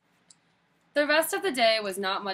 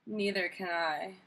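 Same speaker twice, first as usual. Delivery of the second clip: miserable; 4 dB quieter than usual. Acted. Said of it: "thought Chrysanthemum miserably".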